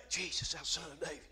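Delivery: very low, hushed mumble; mock timid call. Preacher showing how the blind man didn't cry out, hushed and low. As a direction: call out far too quietly, under the voice. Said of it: "But he didn't say".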